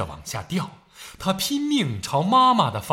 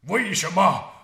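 panting pained shout; 12 semitones higher, 9 dB louder than usual. A narrator's reading. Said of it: "喘着粗气说".

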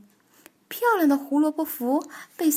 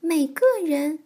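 disbelieving question, pitched up; astonished; 5 semitones higher, 3 dB louder than usual. Acted. Children doubt that everyone gets scared, astonished. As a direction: ask it with mild amazement. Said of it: "惊讶地问".

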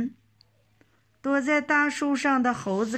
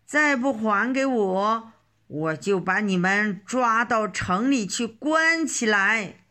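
frantic angry yelling. Acted. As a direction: yell it out, losing all patience. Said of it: "老头儿更急了".

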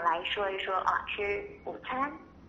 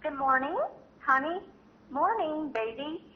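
tender greeting; 5 semitones higher, slower than usual. Shown as a demonstration. Parent gently greeting the baby at wake-up, tender. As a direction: coo it gently to a just-woken child. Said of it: "温柔地说上一声".

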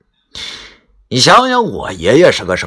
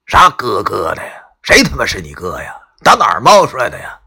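cursing; 3 dB louder than usual. Acted. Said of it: "一边回头一边骂道".

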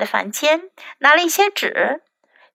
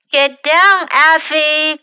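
mother's raised warning call; 4 semitones higher, 4 dB louder, slower than usual. Acted. Mother calls Effie down from the tree outside. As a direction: call the boy down from the tree, a bit louder. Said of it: "cried Mommy".

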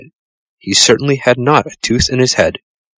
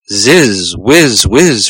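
peevish squeak; 2 semitones higher, 5 dB louder, much slower than usual. Acted. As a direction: whine it like a cross bee. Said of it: "in a peevish squeak".

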